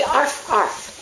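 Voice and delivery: light, worded "arf, arf"; mock dog bark. Owner prompting the dog to talk to squirrels, mock bark.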